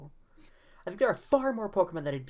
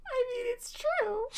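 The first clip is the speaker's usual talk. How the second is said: high, squeaky words through laughter; real laughing; 4 dB louder, slower than usual. Real, not acted. Co-host agreeing that it's true, cracking up. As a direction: squeeze it out slowly while cracking up. Laughing at co-host's kink claim.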